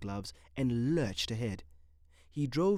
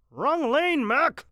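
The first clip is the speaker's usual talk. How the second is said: high, loud yell; attendant yelling; 9 dB louder, much slower than usual. A narrator's reading. Parking attendant yelling at Mitty's car, loud. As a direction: yell at the driver across the lot.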